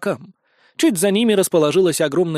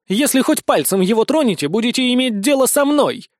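raised, higher warning; barked threat; 7 semitones higher than usual. A narrator's reading. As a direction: warn them off with authority. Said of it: "рявкнула блондинка". (грозно, повысив голос)

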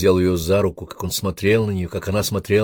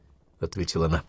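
usual speaking voice

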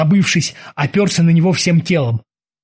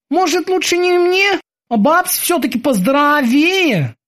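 high nervous sailor voice; 12 semitones higher than usual. Acted. Kiki's lines in the story.

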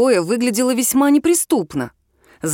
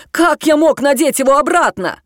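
louder, higher indignant protest; 6 semitones higher, 4 dB louder than usual. A narrator's reading. Max protests he could not have relocked it, indignant. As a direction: argue back hotly. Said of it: "возмущённо отозвался Макс".

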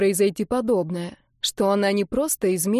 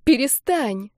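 cry out; 4 semitones higher, slower than usual. Acted. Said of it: "выкрикнула Оля".

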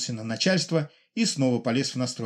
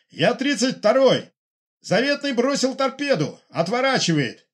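high, loud pilot shouting a report; urgent radio report; 11 semitones higher, 5 dB louder than usual. Acted. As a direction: call it in, alarmed. (громкий доклад пилота по рации)

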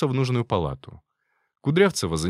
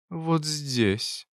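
sultry; 6 semitones higher than usual. Acted. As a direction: breathe it seductively. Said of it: "томным голосом добавила она".

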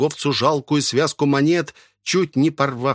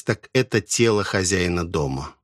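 ordinary delivery, nothing marked

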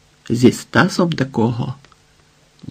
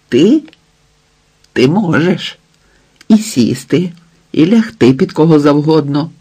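raised, biting scorn; scornful accusation; 3 semitones higher, 4 dB louder than usual. Acted. Husband jeering at wife in a quarrel, scornful accusation. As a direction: throw it back at her as an accusation.

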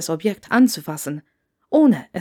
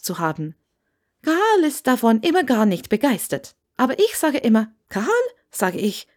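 lightly voiced gushing older woman, a bit higher; a hint of an eager Scottish landlady; chatty landlady voice; 4 semitones higher than usual. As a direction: talk on and on at the new guest. Landlady chatters about guests.

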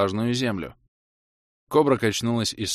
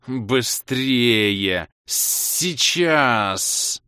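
louder creature hiss, urgent; furious hiss; 3 dB louder, much slower than usual. A narrator's reading. Cobra hissing at the hero to hurry. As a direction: hiss it at him in fury. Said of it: "яростно прошипела".

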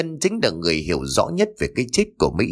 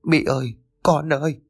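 crying out; 5 semitones higher than usual. A narrator's reading. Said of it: "bà òa khóc".

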